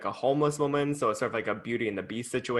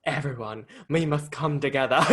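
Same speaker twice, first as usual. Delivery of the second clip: loosely attempted Southern accent. Redoing the Dolly line on request, shaky Southern accent attempt. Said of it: "do that one more time".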